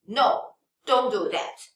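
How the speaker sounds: slow "No" with a falling tone; firm refusal. Shown as a demonstration. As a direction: stop someone with a deliberate "No". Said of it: "If you wanna stop someone doing something".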